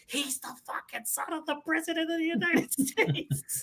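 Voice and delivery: high, slow, laughing through it; laughing disbelief. Real, not acted. Telling friends about the movie twist, laughing in disbelief. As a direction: marvel at the twist, cracking up.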